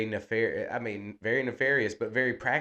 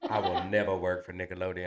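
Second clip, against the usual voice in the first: fast words through a laugh; 4 semitones lower, 3 dB quieter, faster than usual. Real, not acted. Laughing at his co-host's Nickelodeon joke, fast words through laughter. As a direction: rattle it off while laughing. Joking about Nickelodeon job.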